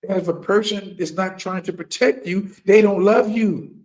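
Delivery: they don't love you punched loud; emphatic. Real, not acted. Speaker driving his point home, loud. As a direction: land the last words hard. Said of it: "Say this again".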